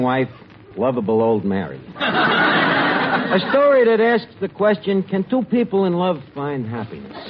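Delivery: soap opera narrator. Acted.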